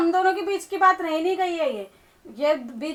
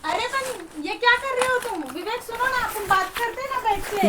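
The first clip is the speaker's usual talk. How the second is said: pleading; 4 semitones higher, 3 dB quieter than usual. Acted. Wife begging her husband not to leave, soft higher plea. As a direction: beg him gently to sit and talk.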